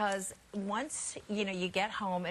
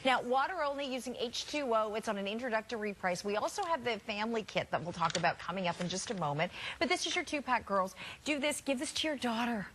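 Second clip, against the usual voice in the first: home shopping host. Acted. Closing sales pitch.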